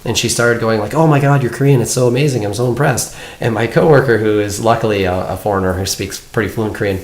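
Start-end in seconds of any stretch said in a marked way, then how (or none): 0.9-3.2 mildly gushing mock admiration; imitated gushing compliment. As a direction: act out someone impressed and full of praise. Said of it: "complimenting me on my Korean".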